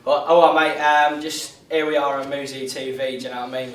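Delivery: cheeky London geezer voice; London accent. Pretend. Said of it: "he's been affecting a really good London accent".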